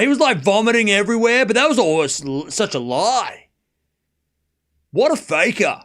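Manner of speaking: mocking complainer accent. Streamer mimicking viewers who cry fake injury, mock outrage in accent. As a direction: parody an outraged fan in a put-on accent. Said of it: "That's what I hear when I hear that".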